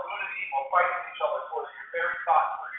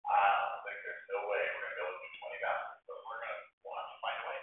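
inner worry; 8 semitones lower, 8 dB quieter than usual. Retold or imitated. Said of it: "I'm thinking".

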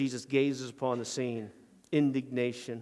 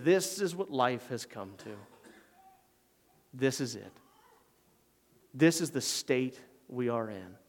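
grieving Jesus. Acted. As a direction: let the words sink in sorrow. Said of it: "and he says".

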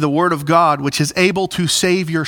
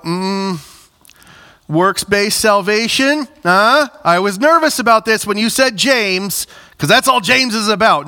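higher, doubting mock-question; skeptical congregant; 5 semitones higher than usual. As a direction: voice a wary listener poking at the sermon. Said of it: "some of you might go".

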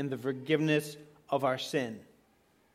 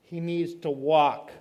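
mock crowd objection; 6 dB louder, slower than usual. Bystanders correcting Jesus, a mock exasperated protest. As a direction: play the crowd scolding Jesus as if he missed it.

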